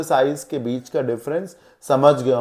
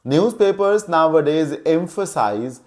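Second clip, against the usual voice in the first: newspapers nowadays emphasize read out very slowly; teacher reading an example sentence slowly; much slower than usual. Shown as a demonstration. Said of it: "जैसे देखिए".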